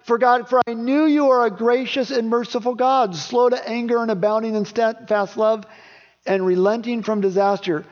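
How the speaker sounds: a lightly voiced indignant Jonah. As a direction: throw God's kindness back at him, indignant. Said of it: "He says he gets mad at".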